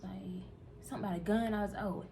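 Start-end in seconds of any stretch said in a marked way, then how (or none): 1.8-2.1 exasperated. Retold or imitated. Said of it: "I just gotta say it like that".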